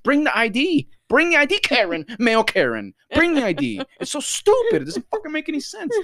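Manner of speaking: high-pitched, incredulous tirade; exasperated rant. Retold or imitated. Onlooker's unspoken outburst at the man without ID, exasperated. Imagined outburst at the arguing customer.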